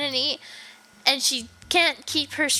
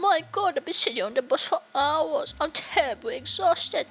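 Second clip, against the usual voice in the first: lightly voiced French accent, pitched up; a weary traveler's attempt at French-accented English; 4 semitones higher than usual. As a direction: complain in an amateur French accent. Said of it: "I don't know how to sound French".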